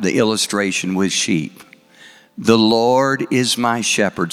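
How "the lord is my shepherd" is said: recited scripture. Shown as a demonstration. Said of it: "Say it with me".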